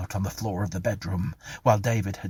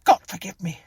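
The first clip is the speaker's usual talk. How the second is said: high, loud cry for mercy; screamed prayer; 13 semitones higher, 6 dB louder than usual. A narrator's reading. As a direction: cry out to God in terror. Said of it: "she screamed".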